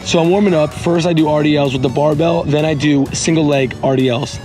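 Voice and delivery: hoarse, worn-out voice; lost voice, rasping through it; raspy whisper. Real, not acted. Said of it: "excuse my voice, I lost it".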